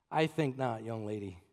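low, soft scolding retort; quiet put-down. Retold or imitated. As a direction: settle her with a low, quiet rebuke. Preacher's final retort.

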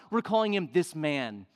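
usual speaking voice

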